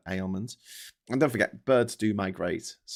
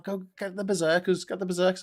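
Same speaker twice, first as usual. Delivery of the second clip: tag; 9 semitones higher than usual. Acted. Acts out a rallying call.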